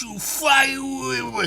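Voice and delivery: high, slow strained yell; yelling rant. Acted. Comic lad losing it, high strained yell. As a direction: splutter it out in a rage.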